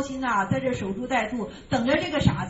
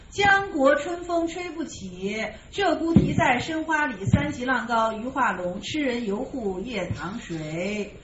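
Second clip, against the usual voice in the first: slow, measured chanting of the verse; verse recitation; slower than usual. Acted. Teacher chanting the old verse to his listeners, slow and measured. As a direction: draw each line out like reading a poem aloud.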